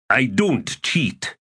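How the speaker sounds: high, slow protest; indignant denial. Acted. A dice player answers an accusation of cheating, indignant. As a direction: deny it, drawing out each word.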